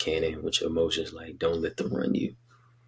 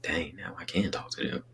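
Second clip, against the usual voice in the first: whispered thought; 7 dB quieter than usual. Retold or imitated. Inner thought voiced as a hush.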